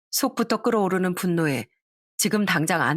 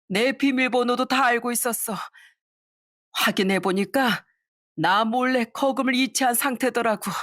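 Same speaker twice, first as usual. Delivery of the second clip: a slightly higher, lightly voiced old mother, aggrieved; mother's voice; 4 semitones higher than usual. Mother recounting the theft to her son, lightly aggrieved. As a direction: tell it like a hurt old mother.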